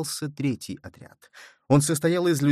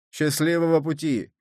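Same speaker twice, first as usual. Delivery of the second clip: shouted; 4 semitones higher than usual. A narrator's reading. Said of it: "крикнули они".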